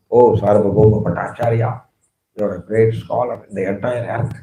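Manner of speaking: low, soft, deferential address; very humble. Retold or imitated. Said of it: "spoke in a very humble way".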